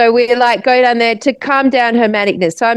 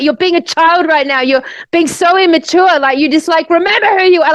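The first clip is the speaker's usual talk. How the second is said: imitating her telling-off in a higher voice; retold angry scolding; 5 semitones higher than usual. Friend berating the storyteller for playing, retold angry scolding. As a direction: scold insistently, as a retold rant. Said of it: "like, really angry".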